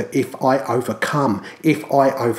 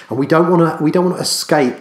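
rising exhortation; 4 semitones higher, 5 dB louder, faster than usual. Real, not acted. Preacher urging the church not to scrape in, raised and loud. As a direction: pitch up, louder urgent plea.

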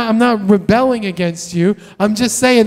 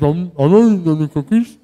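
a lightly voiced kid, mouth full of cookies, fibbing; caught kid denying; 3 semitones lower than usual. Child caught in the kitchen denies to parent, lightly voiced guilty fib. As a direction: play the guilty child insisting he's innocent.

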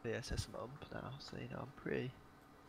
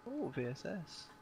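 excited; 6 semitones higher, slower than usual. Real, not acted. Excited about finding the gun.

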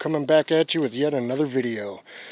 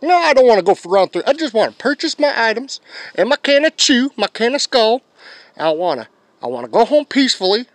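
exasperated pleading; 7 semitones higher than usual. Retold or imitated. Pleading to be left alone.

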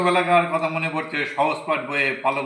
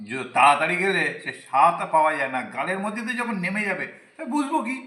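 comic talk; 3 semitones higher than usual. Real, not acted. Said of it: "ওই জন্য তুমি ওরকম করে কথা বলো".

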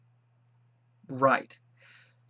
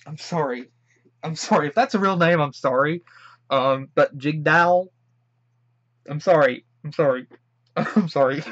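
laughing apology; 5 dB louder than usual. Real, not acted. Laughing apology over name.

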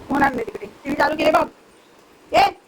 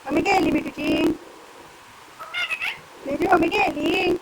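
drawn-out pet talk; 5 semitones higher, slower than usual. Real, not acted. Baby-talk to parrot about mummy.

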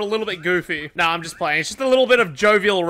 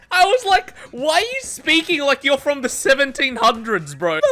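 higher-pitched mock disbelief; retold bafflement; 4 semitones higher than usual. Streamer retelling his reaction to the old-timey phrasing, mock baffled. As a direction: act out being baffled by it.

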